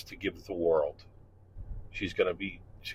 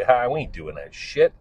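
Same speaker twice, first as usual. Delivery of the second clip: blunt teacher; 3 semitones higher, 4 dB louder than usual. Retold or imitated. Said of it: "And I would say".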